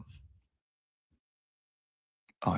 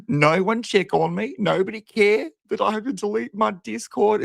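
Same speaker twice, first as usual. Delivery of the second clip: mock whiny impression; 7 semitones higher than usual. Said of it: "She's like".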